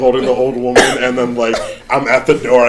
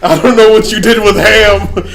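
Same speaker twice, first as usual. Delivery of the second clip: high, loud hammed-up confrontation; accusing shout; 9 semitones higher, 7 dB louder than usual. Armed rescuer confronting the impostor, high accusing shout.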